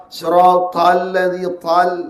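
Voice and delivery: siratal ladzi tal drawn out slowly, the ta heavy and held; tajwid recitation. Shown as a demonstration. Teacher reciting tal slowly for the class.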